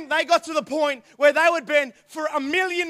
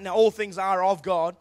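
scripture read over music. Real, not acted.

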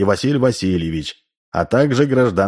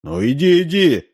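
high-pitched shooing command; a mildly insistent command; ordering; 9 semitones higher than usual. A narrator's reading. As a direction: order it to move along, pitched up. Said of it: "приказал он".

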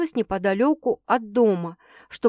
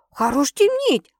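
slow, higher-pitched impatient exclamation; exclaiming; 6 semitones higher, 4 dB louder, slower than usual. A narrator's reading. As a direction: draw it out, demanding an answer. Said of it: "воскликнула Светка". (нетерпеливый возглас, врастяжку)

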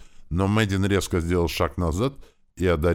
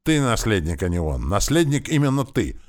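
high, loud outcry; mother crying out to her son; 7 semitones higher, 4 dB louder than usual. A narrator's reading. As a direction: burst out at him, loud and high. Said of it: "вскрикнула женщина".

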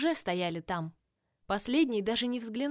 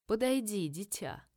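rustling whisper. Acted. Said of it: "прошептала она шуршащим, словно сухие листья, голосом".

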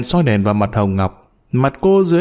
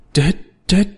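trembling fear; 6 semitones higher than usual. A narrator's reading. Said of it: "run lập cập".

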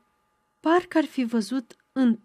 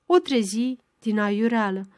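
ordinary delivery, nothing marked

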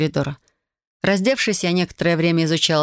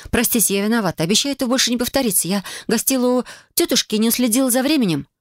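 higher, hurried excuses to a stern matron; flustered apology; 5 semitones higher than usual. Acted. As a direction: babble the excuse quickly, eager to please. Героиня оправдывается перед госпожой Рарык. (торопливо оправдываясь, чуть выше)

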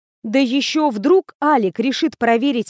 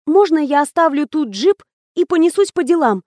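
higher, hurried nervous asking; anxious to get away; a higher, jittery request to leave the jeep; nervous question; 5 semitones higher than usual. A narrator's reading. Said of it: "нервно поинтересовалась я".

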